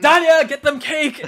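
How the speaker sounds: loud, high shout for cake; calling Danya. Acted. Baroness shouting at her servant for cake, loud and high. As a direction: bellow for the servant.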